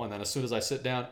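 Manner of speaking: usual speaking voice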